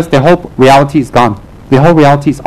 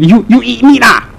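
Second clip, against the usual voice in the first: higher mock-incredulous query; retold shocked question; 6 semitones higher than usual. Devotees asking a lama about meat, mock disbelief. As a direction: stammer it high, imitating a scandalised devotee. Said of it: "they actually ask me".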